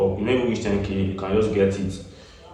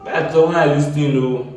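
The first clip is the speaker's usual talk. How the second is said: excited; 6 semitones higher, 5 dB louder than usual. Real, not acted. Thrilled by the result.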